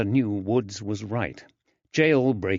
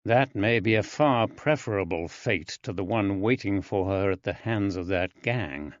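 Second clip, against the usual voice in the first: grim. Acted. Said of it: "said grimly".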